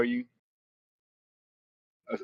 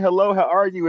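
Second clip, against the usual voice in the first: put-on Cambodian accent; 7 semitones higher, 6 dB louder than usual. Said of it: "It's just in Cambodian".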